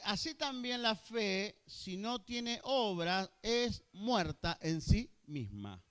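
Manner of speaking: slow, weighty reading of the verse; slow scripture reading. Shown as a demonstration. Preacher reads James to the congregation, slow and weighty. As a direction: let each phrase of scripture land slowly.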